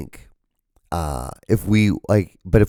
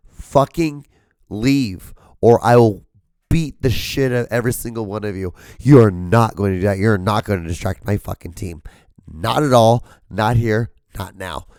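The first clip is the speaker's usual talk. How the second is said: pretend furious GM; 3 dB louder than usual. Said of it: "I said".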